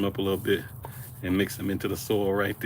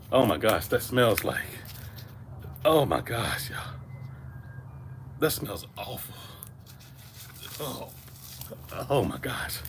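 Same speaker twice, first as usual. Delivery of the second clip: disgusted by smell; slower than usual. Real, not acted. Rotten night crawlers smell awful.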